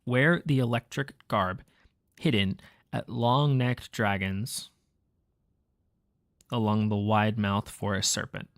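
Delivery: slow, deliberate, word by word; slow careful reread. Shown as a demonstration. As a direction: reread slowly, weighing each phrase. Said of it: "Let me reread that".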